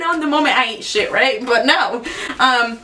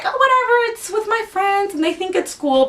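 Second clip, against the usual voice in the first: put-on careless teen; 7 semitones higher than usual. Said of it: "you're like".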